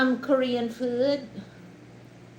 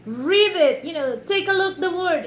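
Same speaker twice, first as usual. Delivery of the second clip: raised, louder retold correction; insistent daughter; 7 semitones higher, 6 dB louder than usual. Daughter telling dad to look closely, insistent. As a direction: imitate a daughter pressing her dad to read. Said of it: "the daughter said".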